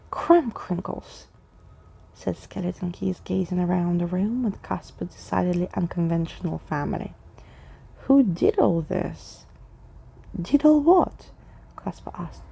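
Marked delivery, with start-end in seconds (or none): 0.1-1.3 slow, higher wondering exclaim; Skeleton Keys exclaiming. Acted. Narrator voicing Skeleton Keys, slow and amazed. 8.0-11.3 slow, louder puzzled question. Acted. Skeleton Keys and Casper trading puzzled questions. Characters question each other.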